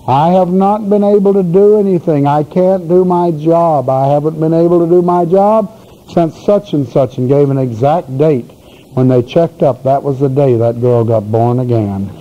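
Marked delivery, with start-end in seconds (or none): 0.1-7.2 a lightly voiced demon, whining a bit higher; complaining demon. Demon complaining to the people casting it out, mild whine. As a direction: grumble like a thwarted demon caught out. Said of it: "began to complain loudly".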